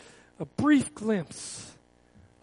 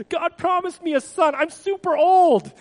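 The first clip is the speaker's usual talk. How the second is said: higher, louder, laughing through the disbelief; half-laughing at how absurd it is; awkward laughing; 6 semitones higher, 4 dB louder than usual. Retold or imitated. Abram laughing at being promised a son so old. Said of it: "laughed about that awkwardly".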